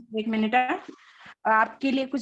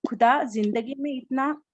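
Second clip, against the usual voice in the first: reciting poetry. Acted. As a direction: recite a shayari couplet by couplet. Recites a birthday shayari.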